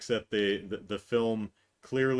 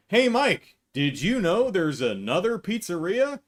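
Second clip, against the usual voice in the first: higher, chirpy pretend tip-off; mock casual question; 5 semitones higher, 4 dB louder than usual. Pretending to tell Mike about pizzeria, higher mock-casual. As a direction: toss it off as a silly aside. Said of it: "it's like".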